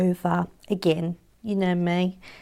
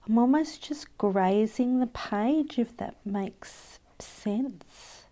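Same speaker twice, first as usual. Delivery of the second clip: whispering; 2 semitones higher, 3 dB quieter, slower than usual. Real, not acted. Soft whisper while drawing.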